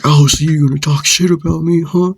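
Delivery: retold hostile questioning; confrontational challenge. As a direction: act out squaring up. Acted challenge, face to face.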